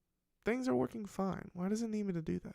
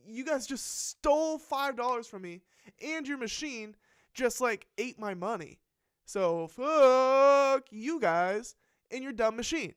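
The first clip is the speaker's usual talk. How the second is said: mock telling-off; 4 semitones higher, slower than usual. Cursing out the bank.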